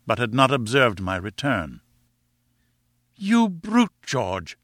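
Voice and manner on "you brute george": high-pitched wifely outcry, understated scream; high, indignant scream without much volume. A narrator's reading. Wife scolding her brutish husband, screamed. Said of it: "she screamed".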